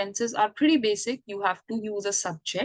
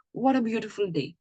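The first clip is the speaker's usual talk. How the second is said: boisterous exclamation. Shown as a demonstration. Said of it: "exclamatory sentence is going to have a very happy and boisterous tone".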